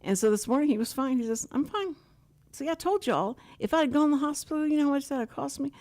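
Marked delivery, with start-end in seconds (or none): 1.5-5.7 high, quick imitated protest; retold defensive insistence, hurried; I-told-you-so. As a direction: play a vindicated husband, pitched way up. Retells husband's morning I-told-you-so.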